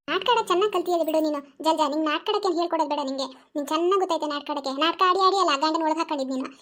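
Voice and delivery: put-on angry old granny scolding. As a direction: tear into them.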